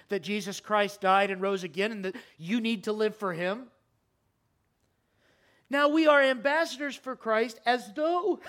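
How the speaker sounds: impassioned sermon voice, rising; preaching. Acted. Pastor pleading with the congregation, impassioned preaching. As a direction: preach it with urgency.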